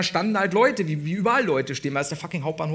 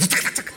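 zack zack zack. Shown as a demonstration. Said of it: "kannst du nochmal machen".

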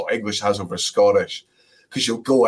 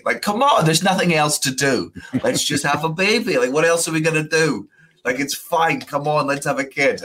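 higher-pitched mock pestering; playful pleading; 7 semitones higher than usual. Dad retelling how he pestered his fiancee for a baby, playful pleading. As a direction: coax eagerly, pitched well up.

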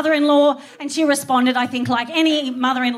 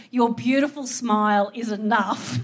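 tender busker; 3 semitones lower than usual. Retold or imitated.

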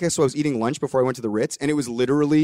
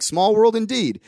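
"Small world indeed" lifted higher, with a knowing, jokey lilt; playful echo; 7 semitones higher, 3 dB louder, slower than usual. Retold or imitated. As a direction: toss "indeed" back with a grin. Speaker echoes Matt's words back.

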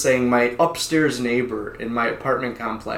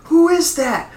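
calling out; 13 semitones higher, 4 dB louder than usual. Retold or imitated. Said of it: "my neighbors were like".

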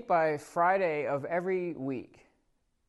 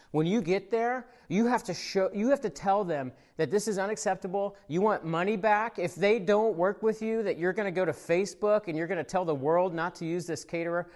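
worked-up rant; 2 semitones higher than usual. Retold or imitated. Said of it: "I'm, like, getting worked up".

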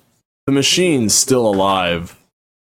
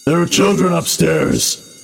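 pleading wounded woman; 8 semitones higher than usual. Acted. Wounded Grace pleads, raised voice.

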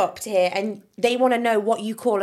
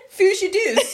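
laughing Doric accent; 10 semitones higher, 5 dB louder, slower than usual. Shown as a demonstration. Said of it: "Say that again".

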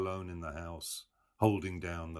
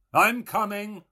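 much higher, loud answering shout; calling back; 12 dB louder than usual. A narrator's reading. Mulligan shouting back down into the tower. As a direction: call down the stairwell.

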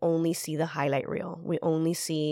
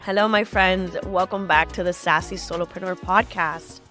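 stuffy nose from a cold, blocked nose. Real, not acted. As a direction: talk through a blocked nose, under the weather. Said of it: "I sound like someone's holding my nose".

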